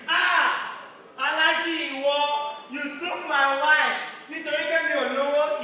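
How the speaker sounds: hammed-up betrayed husband yelling; wronged husband. Husband confronts wife's lover in a Yoruba movie, mock yelling. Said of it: "was like this".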